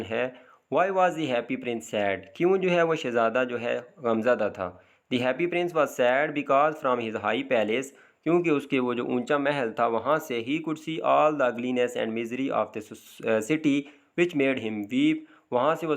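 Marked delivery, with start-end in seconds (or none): 0.7-2.2 slow question reading. Shown as a demonstration. Reads textbook question. 5.1-15.1 very slow English answer read word by word; slow dictation reading. Shown as a demonstration. Teacher dictates the textbook answer slowly to students.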